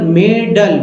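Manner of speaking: मेडल said slowly, sound by sound; pronunciation demo. Shown as a demonstration. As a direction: draw out मेडल to show its vowels. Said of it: "मेडल में ई को क्या पढ़ रहे हैं".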